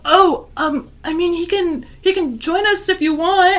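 high, loud, laughing mock weirdo; weirdo offering. Weird coworker suggesting the husband join, high and loud. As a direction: squeak it out like a creep through a laugh. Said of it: "this weirdo was like".

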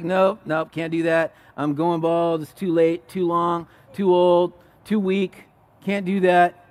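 dismissive self-talk on one level note; mock self-doubt. Preacher mimicking self-doubters at the mirror, mock defeatist. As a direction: list excuses in an unvarying monotone.

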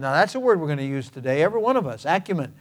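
mildly imitating a wife's dry teasing; quietly deadpan, with tongue in cheek; understated mock-solemn quip. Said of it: "said very dryly".

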